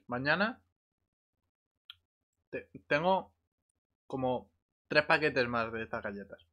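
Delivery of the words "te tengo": ordinary delivery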